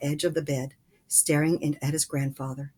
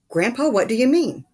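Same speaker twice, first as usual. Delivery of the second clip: higher, louder pleading question; Charlie, high and eager; eager boy; 7 semitones higher, 8 dB louder than usual. A narrator's reading. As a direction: pull at grandpa for the answer.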